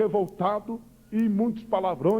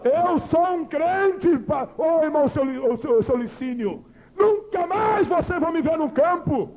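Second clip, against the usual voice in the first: tearful shout; 4 semitones higher than usual. Real, not acted. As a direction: cry it out with real tears. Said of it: "testimony climax, crying heard".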